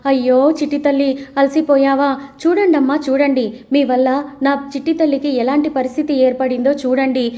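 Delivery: hammed-up lament over her little girl; deliberate fuss. Mother making a show of pity for her daughter, mild mock wail. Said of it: "కావాలని గగ్గోలు పెడుతూ ఉంటుంది".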